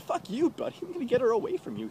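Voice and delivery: high, fast, loud rant at a rival; retold club confrontation, high angry shout; angry yell. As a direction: snap at the guy to back off. Yelling at the other guy.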